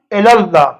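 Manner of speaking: الی اللہ set apart as "ela-llah"; deliberate teaching "ela-llah"; correct pronunciation. Shown as a demonstration. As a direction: isolate الی اللہ, first vowel "e", single L. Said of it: "الہ ہے".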